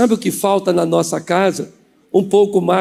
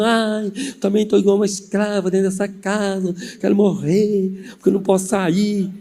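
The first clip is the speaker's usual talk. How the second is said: imitated tearful whining. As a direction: whine like a crying cousin. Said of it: "E minha prima chorando".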